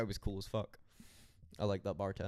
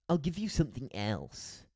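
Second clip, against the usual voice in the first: higher, louder snobbish Scottish bartender; pretentious Scottish accent; 5 semitones higher, 5 dB louder than usual. Retold or imitated. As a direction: mimic an obnoxious Scot grudgingly offering an alternative. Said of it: "most obnoxious accent".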